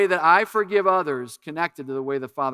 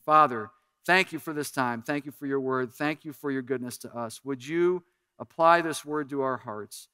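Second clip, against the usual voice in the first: pastor's prayer. Acted. Pastor prays over congregation.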